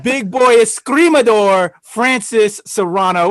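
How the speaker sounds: drawn-out announcer hype; hype intro. Real, not acted. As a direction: announce him like a ring entrance.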